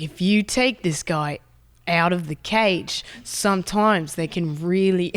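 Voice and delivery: imitated Australian accent; Steve Irwin. Croc handler explaining to dad in the cage, Australian accent. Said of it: "He's like".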